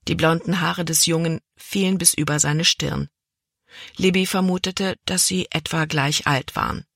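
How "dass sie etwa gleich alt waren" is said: usual speaking voice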